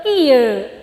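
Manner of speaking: drawn-out Sundanese lilt on "kieu"; Sundanese intonation. Shown as a demonstration. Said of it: "lentong orang Sunda mah kieu".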